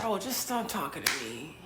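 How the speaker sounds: very soft, low, tearful; tearful plea. Retold or imitated. Woman quoting herself to men, soft tearful plea. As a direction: beg them to stop, near sobbing. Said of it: "get the urge to start crying".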